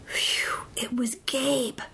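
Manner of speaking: breath of relief, then slow hushed words; relieved. Acted. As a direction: sigh it out with relief. Child relieved monster returned.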